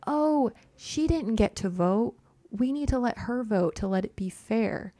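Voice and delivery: lightly mimicked fussy objection, pitched a little up; mock pleading objection. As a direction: plead for fairness in mild mockery. Mimics voters pleading for a revote.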